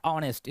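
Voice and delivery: ऑनेस्ट starting straight on the "o" vowel; silent H. Shown as a demonstration. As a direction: say ऑनेस्ट with no h sound. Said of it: "उच्चारण ह नहीं हो रहा है".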